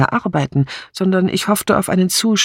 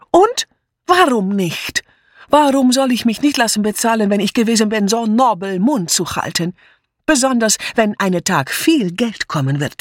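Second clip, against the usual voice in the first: furious maid; 6 semitones higher than usual. A narrator's reading. Mitzi rounds on the inspector, flaring up angrily. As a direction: spit it back like an angry cat. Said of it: "wie eine wütende Katze".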